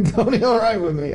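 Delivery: laughing through inhale talk; talking while inhaling. Retold or imitated. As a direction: gasp the words in. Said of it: "inhale talk".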